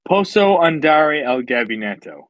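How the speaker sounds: "Posso andare al gabinetto?" recited as a learned school phrase; careful classroom Italian; schoolbook Italian phrase. Shown as a demonstration. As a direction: say the Italian sentence like a student showing off. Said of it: "now I'm gonna say it".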